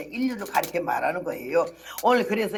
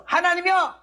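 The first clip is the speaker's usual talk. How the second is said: high, loud, desperate call; tossing away the drum, she calls out to God desperately; crying out to God; 9 semitones higher, 5 dB louder than usual. Retold or imitated.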